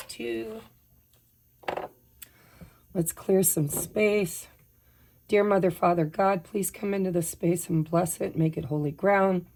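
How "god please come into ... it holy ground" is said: usual speaking voice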